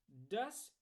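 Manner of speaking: playful, drawn-up word; grinning. A narrator's reading. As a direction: say it through a grin. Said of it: "grinste Archibald".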